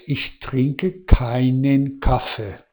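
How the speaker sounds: slow model sentence, keinen stressed on its first syllable; teacher's slow German model with keinen stressed. Shown as a demonstration. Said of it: "el acento va en la A".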